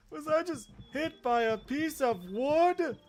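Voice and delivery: high, loud, slow stunned question; mock outrage. Character just hit by wood, high loud disbelief. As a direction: ask in indignant disbelief.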